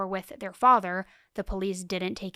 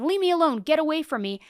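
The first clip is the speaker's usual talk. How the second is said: higher, louder retold warning; mock threat; 6 semitones higher, 5 dB louder, faster than usual. Father threatening the mother on the street, mock threat. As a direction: imitate someone driving another person off. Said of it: "He starts threatening her".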